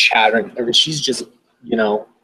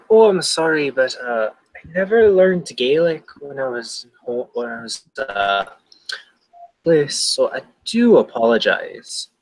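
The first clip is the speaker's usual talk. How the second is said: put-on apologetic, lightly Irish-accented character; halting speech with a mild Irish accent; attempted Irish accent; 2 semitones higher than usual. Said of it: "I know what accent you're trying to do".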